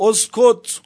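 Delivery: high sharp cry of اسکت; retold shout. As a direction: cry out اسکت as a harsh command. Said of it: "فریاد زد".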